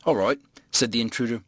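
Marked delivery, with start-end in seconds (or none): none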